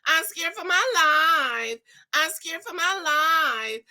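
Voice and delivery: mock terrified, voice rising; mock fear. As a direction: play scared for your life, hammed-up. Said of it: "I was like".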